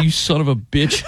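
laughing curse. Retold or imitated. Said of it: "I'm just like".

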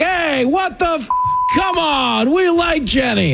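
indignant fan. Retold or imitated. Studio crowd defending the host's wife, high indignant protest. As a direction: squeal it like an offended fan defending Jenny. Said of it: "be like".

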